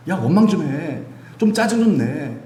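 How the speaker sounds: a nagging demon, pitch climbing with each urging; goading evil spirit. Acted. Preacher voices a demon egging people on to grumble, goading. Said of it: "귀신은 막 계속 그렇게 해요".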